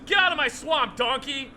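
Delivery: hammed-up Scottish ogre chasing Donkey off; Scottish accent, ogre yelling at donkey; Scottish Shrek voice. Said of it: "Michael Myers is doing a bunch of lines".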